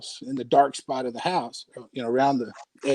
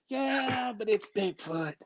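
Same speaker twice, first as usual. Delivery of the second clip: unimpressed; 4 semitones higher, 11 dB quieter, much slower than usual. Retold or imitated. Teen son dismissing dad's art.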